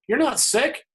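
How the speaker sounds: high-pitched, swooping elation; manic euphoria. Acted. Explaining bipolar highs to podcast host, manic euphoria. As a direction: act out being on top of the world, pitch leaping.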